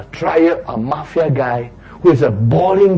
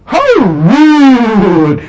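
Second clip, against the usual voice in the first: higher and louder, said to be overheard; loud pointed remark; 9 semitones higher, 7 dB louder than usual. Retold or imitated. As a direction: call it out over your shoulder. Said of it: "purposely want the person to hear".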